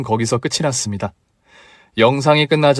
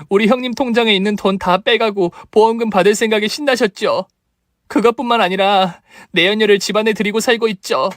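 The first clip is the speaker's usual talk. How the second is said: high, rising indignant reproach; sister-in-law accusing the husband; tearful accusation; 7 semitones higher than usual. Acted. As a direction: confront them with the truth. Acted quarrel, accusing in-laws.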